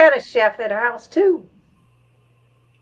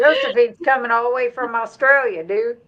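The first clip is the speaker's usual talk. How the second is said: laughing; 2 semitones higher than usual. Real, not acted. Joking invite, laugh heard.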